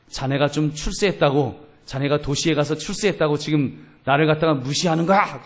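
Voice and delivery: mildly indignant rebuke, acted out; retold anger. Orchard owner's son scolding the visiting elder, mildly angry. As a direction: imitate an offended man, building slightly in force. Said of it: "화를 내면서 하는 말이".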